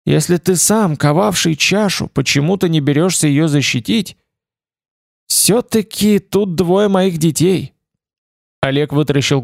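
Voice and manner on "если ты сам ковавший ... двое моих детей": deathly tired voice. Acted. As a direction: drag the words out, exhausted. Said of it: "Голос прогремел медленный и смертельно уставший".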